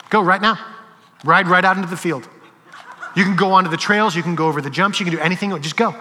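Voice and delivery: teacher snaps and mockingly lets the kid ride; mock outburst. Teacher fed up with the kid's question, loud mock outburst. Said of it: "but I lost it".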